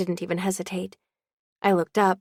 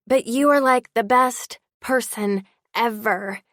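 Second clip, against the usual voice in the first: emotional emphasis; 3 semitones higher, 4 dB louder than usual. Acted. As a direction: voice rising then slowing on best person ever. Emotional declaration to friend.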